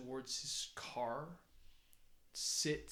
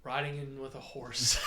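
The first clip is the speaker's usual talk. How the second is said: excited shout; 8 dB louder than usual. Real, not acted. Excited narration of the gallop.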